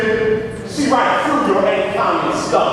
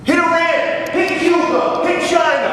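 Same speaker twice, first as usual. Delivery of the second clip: mocking sarcastic listing; 7 semitones higher than usual. Real, not acted. Mocking the board's pro-war agenda.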